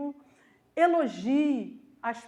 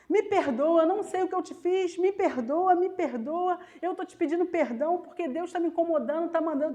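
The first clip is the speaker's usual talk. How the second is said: mock yelled plea, pitched up; gritando, suplicando; 4 semitones higher than usual. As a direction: retell a desperate begging call, raised voice. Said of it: "eu fui gritando atrás dela". (súplica gritada, encenada)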